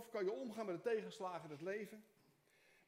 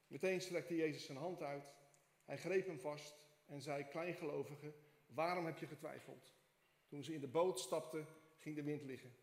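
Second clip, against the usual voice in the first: scripture reading. Acted. Pastor reads Matthew to the congregation, steady scripture reading. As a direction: read the passage out to the church.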